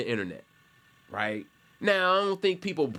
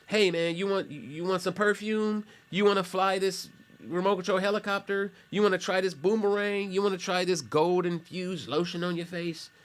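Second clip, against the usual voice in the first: higher, eager hawker's pitch; pushy kiosk seller; 6 semitones higher than usual. Retold or imitated. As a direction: hawk it at passersby like a mall cart vendor. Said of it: "They're all, like".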